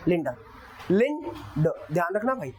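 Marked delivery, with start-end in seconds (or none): 0.9-1.7 लिन ड with लिन strong and ड weak; stress on lin. Shown as a demonstration. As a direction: lean on लिन, drop ड. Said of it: "यहाँ पर लिन है".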